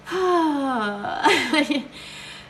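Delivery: long, high whimpering sigh; emotional sigh. Real, not acted. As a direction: let out a teary, overwhelmed sigh. Overwhelmed by sweet comments.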